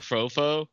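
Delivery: "Crofo" with "crow" as the first syllable; suggested pronunciation. Shown as a demonstration. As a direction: say "Crofo" with a long O in both syllables. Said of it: "the proper way to pronounce it".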